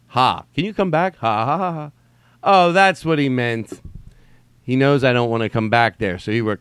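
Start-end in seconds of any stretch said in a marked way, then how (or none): 0.1-1.9 trying out "ha" as laughter; dawning mock laugh. Reader deciding the typo meant laughter, trying out ha. 2.4-3.8 slow, high, loud dawning; mock realisation. Reader finally misunderstanding the text, loud mock realisation.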